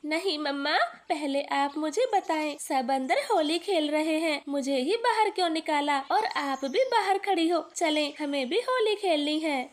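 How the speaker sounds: put-on a light child's voice, eager; little boy Kuku. Little son tells his mother about the tent, eager child voice. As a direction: play the excited little son.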